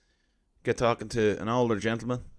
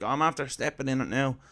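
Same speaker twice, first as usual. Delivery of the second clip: mock flustered, rushed and tumbling; a light imitation of a jumbled old fella backpedalling; flustered old man; 3 semitones higher than usual. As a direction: hurry the words like he's caught out. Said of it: "He was getting all jumbled".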